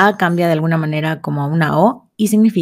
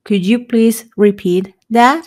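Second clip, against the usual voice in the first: slow model question; 2 semitones higher, slower than usual. Shown as a demonstration. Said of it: "decir esta frase".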